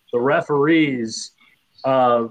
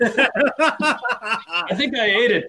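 laughing; 2 semitones higher than usual. Real, not acted. Joking about Malnati's pizza.

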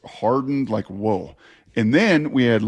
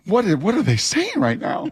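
baffled disbelief; 4 semitones higher than usual. Retold or imitated. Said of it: "I was like".

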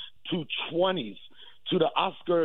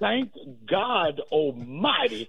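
Martin Luther King; 3 semitones higher, much slower than usual. Retold or imitated. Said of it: "I will echo the words that Doctor Martin Luther King said".

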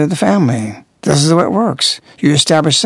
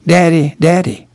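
intimate Daddy. Retold or imitated. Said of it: "An intimate term".

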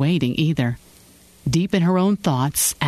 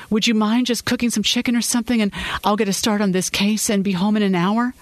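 higher, hurried apologetic plea; wife apologizing to husband for working late, pleading; 6 semitones higher than usual. Acted. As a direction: beg him to understand, rushing a little. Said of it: "she pleaded".

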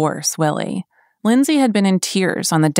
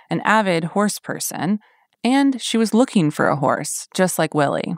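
true crime narrator. Acted. Podcast narration.

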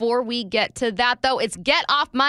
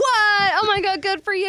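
mock amazed gushing; 10 semitones higher than usual. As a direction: fake being stunned with admiration. Mock awe at no TV.

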